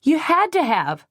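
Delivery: high, loud furious shout. A narrator's reading. Heroine shouting at Reeves, furious. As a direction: yell it at him. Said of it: "she shouted".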